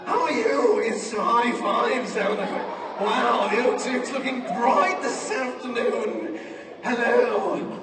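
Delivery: hammed-up arena comedian greeting; slow, drawn-out stadium hello; lightly mock a comic working a huge crowd; Michael McIntyre. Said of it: "It's a terrible impression".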